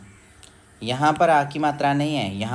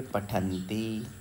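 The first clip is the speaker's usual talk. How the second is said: पठन्ति drawn out slowly; slow recitation; 5 dB quieter, much slower than usual. Shown as a demonstration. Teacher slowly giving the plural form पठन्ति. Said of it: "उसको क्या कहेंगे?".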